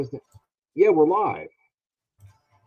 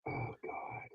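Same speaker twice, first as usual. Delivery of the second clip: whispered; 19 dB quieter than usual. Real, not acted. Reacting to bad audio.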